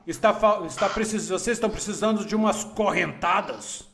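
menacing lord. Acted. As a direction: lean in and menace them. Lord of Chains threatens guards.

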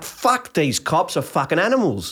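mildly heated, high burst settling down; annoyed outburst. Retold or imitated. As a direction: retell your own annoyed reaction. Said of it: "I'm getting, I'm getting annoyed".

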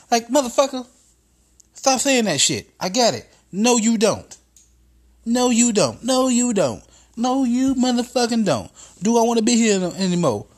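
high, loud, fed-up shouting back; exasperated yelling. Acted. Comic shouting back at the sales pitch, furious. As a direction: snap at the pitch man over and over.

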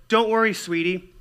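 loud, high-pitched cajoling husband; mock soothing of a betrayed wife; placating husband. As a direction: reassure the wife far too insistently. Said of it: "when you're a man who says".

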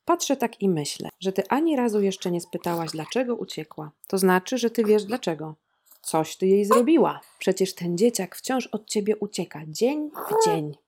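a furious neighbour accusing the mother; accusing tirade. A narrator's reading. Accusing neighbour voiced in reading.

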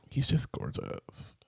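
whispered, slow and swooning; breathy whisper. Real, not acted. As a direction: sigh it out like a crush. Swooning over actor.

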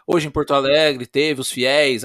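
dictating. Retold or imitated. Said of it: "fazer um hard newsão".

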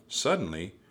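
plain reading voice

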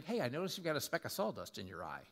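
quick, offhand correction; casual fault-finding. Acted. Hypocrite pointing out a friend's speck, offhand. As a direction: toss it off at a brisk clip.

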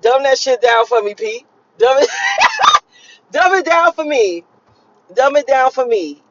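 laughing mock plea, high on the first dumb it; people asking. Imitating people begging her to simplify, laughing. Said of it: "and they like".

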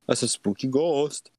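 lightly put-on Minnesota accent. Friend joking about a spooky ghost, Minnesota accent. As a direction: play up a Minnesotan ghost remark. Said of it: "What are we from, Minnesota?".

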